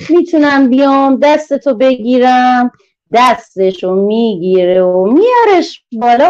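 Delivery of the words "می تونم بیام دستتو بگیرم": kind letter character. Acted. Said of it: "آ غیر اول میگه".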